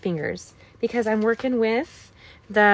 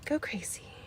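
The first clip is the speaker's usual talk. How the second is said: playful cheer; 2 semitones higher, 12 dB quieter than usual. Retold or imitated. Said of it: "I used to tell them".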